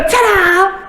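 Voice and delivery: put-on bright kid's ta-da; playful ta-da. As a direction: show off like a proud kid. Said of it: "they go".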